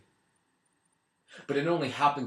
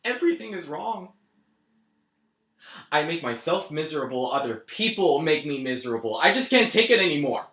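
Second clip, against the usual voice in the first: despairing outburst; 2 semitones higher than usual. Acted.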